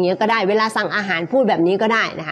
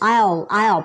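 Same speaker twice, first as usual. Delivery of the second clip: said quickly. Shown as a demonstration. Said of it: "พูดเร็วๆนะ มันก็จะเป็น".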